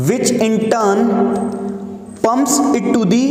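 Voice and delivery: very slow, word by word dictation with long pauses. Shown as a demonstration. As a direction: dictate each phrase slowly so students can write. Teacher dictating notes.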